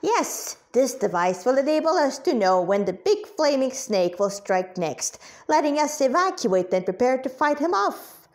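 eager, bright-eyed explaining, pitch jumping up; clear enthusiasm. Acted. Old doctor showing off his new device, eagerly. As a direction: sell the invention like an excited old inventor. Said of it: "spoke with clear enthusiasm".

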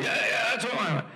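a pleased fan who got his answer; mock delighted sports fan; happy fan. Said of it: "They were happy".

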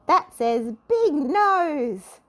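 slow, loud, cheeky teasing; mischief-maker mocks her friend, slow and loud; teasing laugh. A narrator's reading. Little Miss Trouble teases Mister Nosey, slow and cheeky. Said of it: "laughed Little Miss Trouble".

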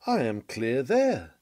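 slow, complacent mock assurance; smug self-assurance. Preacher voicing the self-righteous man, slow and smug. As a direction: drawl it out as if nothing could touch him. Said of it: "says he".

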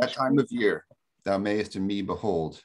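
measured recital of verse; poem reading. Real, not acted. Lecturer opens class with the sonnet, reciting verse. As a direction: read the sonnet aloud with expressive phrasing. So I'll start with that.

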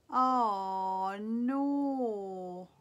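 long drawn-out, dismayed "oh no". Real, not acted. Vlogger finds a loved lipstick has something on it, dismayed. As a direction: draw both words out in real disappointment.

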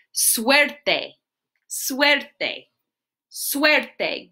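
"Suerte" said SWEHR-teh, rolled Spanish r; slow careful "Suerte" for kids to copy; teaching "Suerte" in Spanish; Spanish good luck. Shown as a demonstration. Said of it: "We say".

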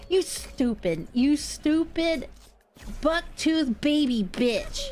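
slow, deliberate cursing; measured, exasperated name-calling; seething insult. Real, not acted. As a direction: draw out each word of the insult. Insulting the ball slowly.

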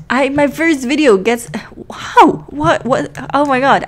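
squealing, breathless disbelief; gasping oh my gods; excited freakout. Acted. Freaking out over nomination.

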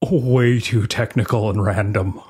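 slow, lightly put-on reviewer voice; imitating the reviewer. The speaker reading a one-star review aloud, lightly put-on reviewer voice. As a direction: read it out as the grumpy reviewer, slow. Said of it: "I'm gonna do a voice".

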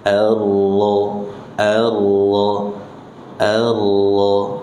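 Allah said with the r buried, no bounce; hidden r. Shown as a demonstration. Teacher repeating Allah for students, r hidden. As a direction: let the r vanish into Allah. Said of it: "hilangkan, sembunyikan".

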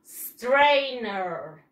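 "Strainer" stretched slowly with a clean initial s; model pronunciation. Shown as a demonstration. Teacher has pupils repeat the word, model pronunciation. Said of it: "yo digo strainer".

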